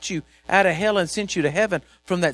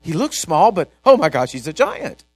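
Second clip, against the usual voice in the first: mock fear; 7 dB louder than usual. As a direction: ham up the panic over a giant. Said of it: "And he said".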